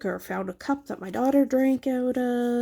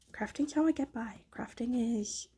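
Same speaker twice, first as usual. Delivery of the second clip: whispered confession; 7 dB quieter than usual. Real, not acted. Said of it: "confiding whisper about sanity".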